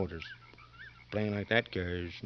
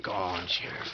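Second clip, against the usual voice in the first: will him down, getting louder each time; urging, building to a yell; 2 semitones higher, 5 dB louder than usual. Acted. Convict silently begs the sick sheriff to collapse, building to a shout.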